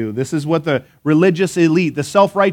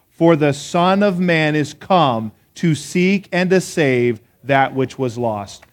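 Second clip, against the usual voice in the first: slow, measured verse recital; leading a recitation; slower than usual. Real, not acted. Preacher leads congregation saying the verse together, slow recitation. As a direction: lead it slowly so everyone can join. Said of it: "Let's say that verse together".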